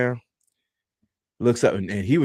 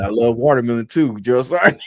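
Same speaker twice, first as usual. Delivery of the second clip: deadpan; 3 semitones higher, 5 dB louder than usual. Retold or imitated. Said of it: "I said it with such a straight face".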